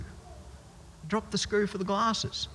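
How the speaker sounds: quietly dismayed, after dropping the screw; dismayed murmur. Real, not acted. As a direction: let it drop out in quiet dismay.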